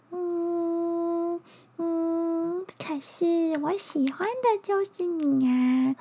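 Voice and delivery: high, sweet little bug. Acted. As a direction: coax like a cuddly little insect.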